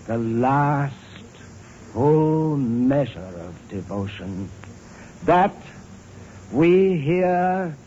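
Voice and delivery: slow oration climbing steadily in pitch; fervent, deliberate speech, each phrase set apart; impassioned recitation. Acted. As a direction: build the solemn address toward its climax. Recitation builds toward its climax.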